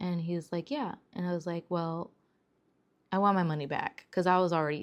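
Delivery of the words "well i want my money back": usual speaking voice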